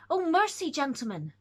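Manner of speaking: sudden high plea; cry of mercy. Acted. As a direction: cry out in alarm. Frightened cry from the window.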